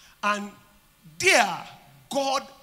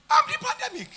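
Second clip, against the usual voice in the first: I'm the pandemic cried out much higher; high declaration; 3 dB louder, faster than usual. Shown as a demonstration. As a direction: fling "I'm" up high and proclaim. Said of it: "repeated declaration".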